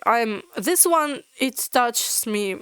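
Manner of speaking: getting teary. Real, not acted. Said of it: "I'm getting teary".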